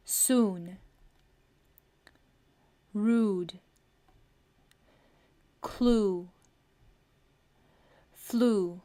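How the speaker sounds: soon, rude, clue, flu each with a long oo; careful example words. Shown as a demonstration. Teacher reading examples of the ऊ sound. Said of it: "ऊ का sound".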